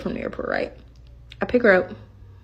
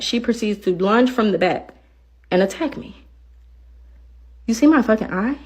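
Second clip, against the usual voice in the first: usual speaking voice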